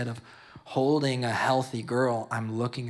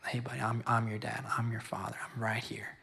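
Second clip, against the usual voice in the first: God's tender voice; 6 dB quieter than usual. Retold or imitated. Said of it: "he's like".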